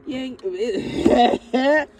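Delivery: excited outburst. Real, not acted. Excited reading, laughing.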